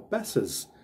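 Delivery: passes said pass-iz, ending on a buzzing iz. Shown as a demonstration. Teacher to students showing passes ending in iz. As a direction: land passes on a clear iz. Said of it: "som de I Z no final".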